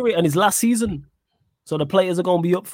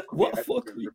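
much higher, thin mock outrage; incredulous squeak; 7 dB quieter than usual. Real, not acted. Amused friend squeaks back at the fuckery accusation, incredulous. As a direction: squeak it in disbelief. Incredulous reply through laughter.

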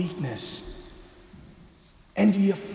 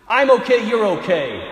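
mock happy Jesus; 3 semitones higher, 5 dB louder than usual. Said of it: "Sort of this happy Jesus".

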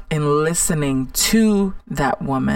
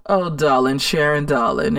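Diane Carroll voice. Retold or imitated. Imitating the inner critic, a hint of a Diane Carroll diva. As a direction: lazily purr darling like a glamorous old star. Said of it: "she has that Diane Carroll voice".

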